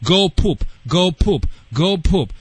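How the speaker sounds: dog command. Shown as a demonstration. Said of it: "tell her".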